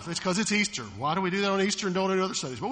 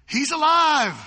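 loud, excited, higher cry of joy; stoked shout; 8 semitones higher, 9 dB louder, slower than usual. Retold or imitated. Disciples finding Thomas, shouting in excitement. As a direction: blurt out the good news. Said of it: "they're stoked".

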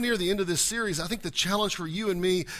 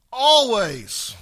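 proclaimed; 5 semitones higher, 9 dB louder than usual. Retold or imitated. Preached emphasis on always.

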